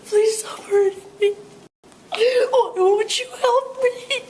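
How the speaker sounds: very high, tearful pleading, some lines whispered; begging hurt animal. Acted. Tortured animal begging the listener for help, very high tearful pleading. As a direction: beg them to stop, crying and desperate.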